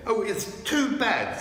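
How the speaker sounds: a touch of sobbing grief; Lucy grieving over the broken table. A narrator's reading. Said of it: "sobbed Lucy".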